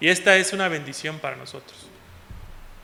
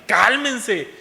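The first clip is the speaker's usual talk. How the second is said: higher firm call to calm down; firm command; 5 semitones higher, 4 dB louder than usual. Shown as a demonstration. Preacher quoting Jesus to his disciples, a firm higher command. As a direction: say it as an order, a bit raised. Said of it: "Es una orden".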